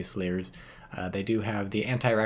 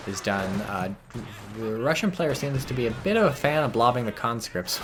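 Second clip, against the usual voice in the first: normal talking voice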